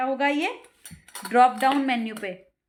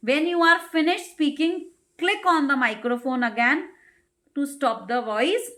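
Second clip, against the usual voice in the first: slowly read, word by word; dictating slowly; slow read-aloud; much slower than usual. Shown as a demonstration. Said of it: "reading instructions aloud".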